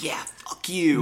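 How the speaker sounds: slow, whispered mock snarl; whispered sneer at the camera. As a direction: hiss it with contempt. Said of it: "she looked like".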